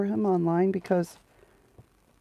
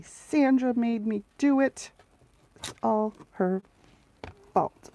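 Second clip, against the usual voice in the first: mock excuse; 5 semitones higher than usual.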